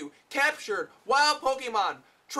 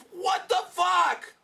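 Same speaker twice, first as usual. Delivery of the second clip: slow outrage; 9 semitones higher, much slower than usual. Real, not acted. Outraged disbelief.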